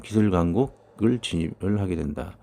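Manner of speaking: ordinary delivery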